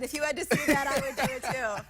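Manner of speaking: laughing while talking. Real, not acted. Anchor laughing after photo.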